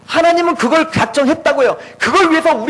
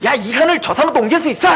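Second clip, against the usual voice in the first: mock boasting believer. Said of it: "웃기지 마세요".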